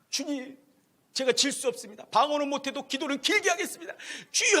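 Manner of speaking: rising to a high loud cry of 주여; fervent prayer. Retold or imitated. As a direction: build the prayer up to a shout. (점점 높아져 주여 하고 외치는 기도)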